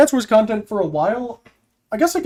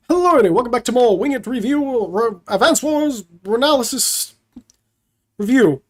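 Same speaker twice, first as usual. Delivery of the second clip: YouTuber voice. Shown as a demonstration. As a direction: greet the viewers like a YouTuber. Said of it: "Let's get YouTuber voice going".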